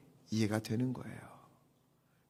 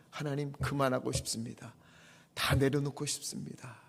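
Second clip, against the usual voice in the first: defeated plea; 4 semitones lower, 7 dB quieter than usual. Retold or imitated. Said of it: "이렇게 말하는".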